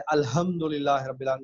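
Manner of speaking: الحمدللہ with a plain light h for ح; careless mispronunciation. Shown as a demonstration. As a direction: say الحمدللہ casually, losing the throaty ح. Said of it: "جیسے بہت سے لوگ توجہ نہیں کرتے".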